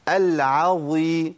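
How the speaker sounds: "العظيم" بعين مفخمة ممدودة ببطء; heavy ain. Shown as a demonstration. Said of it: "عا دي مش في القرآن". (تفخيم العين خطأ)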